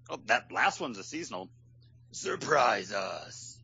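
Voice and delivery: lightly voiced old bartender; a hint of a grumpy old barman; old man voice. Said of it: "I like your old man librarian voice".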